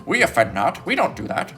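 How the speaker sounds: mock their denial in a little voice. Preacher mimicking adversaries denying all blame, mock little voice. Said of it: "that's how they talk".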